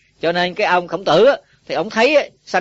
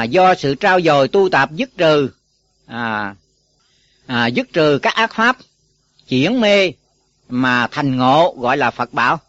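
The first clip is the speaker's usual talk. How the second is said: slow dictation; 2 semitones lower, 3 dB louder, slower than usual. Shown as a demonstration. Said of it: "bây giờ thầy lặp lại".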